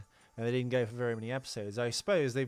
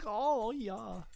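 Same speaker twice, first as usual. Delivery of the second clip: high falsetto; 9 semitones higher than usual. Pretend. Continues falsetto tease.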